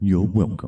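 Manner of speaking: slightly pouty, sulky voice. It answers the apologizing speaker's thanks, with a little pout. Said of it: "you hear that little bit of a pout in its voice".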